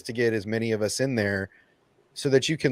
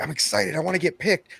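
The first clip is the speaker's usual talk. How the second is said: excited; 9 semitones higher than usual. Retold or imitated. Eager quote of being picked.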